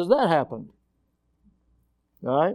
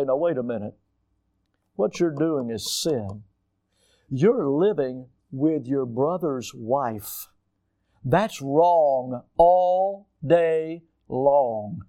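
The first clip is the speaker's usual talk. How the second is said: stern rebuke; 3 semitones lower, slower than usual. Acted. John the Baptist to the king, a slow, low grave rebuke. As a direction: lay out the sin slowly and gravely.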